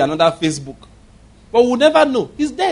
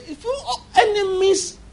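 laughing. Real, not acted. Laughing mid-sermon.

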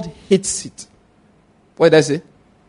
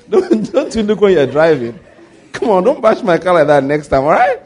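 half-laughing pretend telling-off; laughing mock scolding. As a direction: scold him while laughing. Scolding the careless driver, laughing.

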